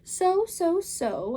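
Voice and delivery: put-on the Cat in the Hat calming the children, big and upbeat. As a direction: reassure the kids with a grand flourish. Cat builds suspense.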